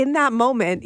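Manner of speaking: normal talking voice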